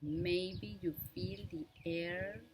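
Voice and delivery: unhurried meditation guide with long pauses; measured instructions in short, spaced-out phrases; guided meditation. Real, not acted. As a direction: guide listeners gently through breath awareness, leaving lots of space. Leads a breathing meditation.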